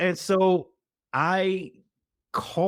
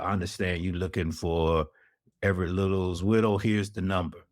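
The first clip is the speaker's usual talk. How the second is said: lower, deep-voiced stranger on the phone; a lightly lowered, brisk male caller; 6 semitones lower than usual. A caller passes on the widow's number in a low voice. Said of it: "deep voice".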